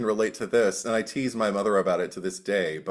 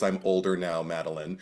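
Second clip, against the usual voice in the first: low, soft, groggy diva; a hint of sleepy diva; deep morning voice; 4 semitones lower, 7 dB quieter than usual. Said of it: "In her deep morning voice".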